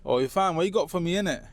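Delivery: a touch of London gang accent; inner London accent. Shown as a demonstration. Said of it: "The inner London accent is a bit more like".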